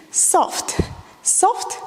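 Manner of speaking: cued softly, almost whispered. Shown as a demonstration. Dance teacher cueing a soft move, hushed. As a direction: breathe the count out gently. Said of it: "combine both soft movement and accented movement".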